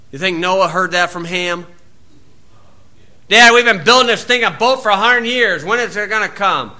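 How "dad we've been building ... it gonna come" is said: higher, pleading son; whining son. Retold or imitated. Ham complaining to his father Noah, mock whine. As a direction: complain like an impatient kid.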